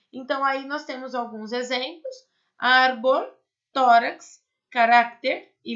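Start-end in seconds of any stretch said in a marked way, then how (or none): 2.6-3.3 "árbol" with a loud first syllable; "árbol", stress on the first syllable, louder. Shown as a demonstration. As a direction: lean hard on the "ár" of "árbol". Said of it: "aqui a minha sílaba forte aqui".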